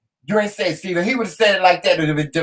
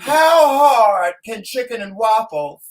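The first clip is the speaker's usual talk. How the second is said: higher, slower, drawn-out shout of disbelief; exasperated outburst; 4 semitones higher, slower than usual. Real, not acted. Exasperated outburst about the order.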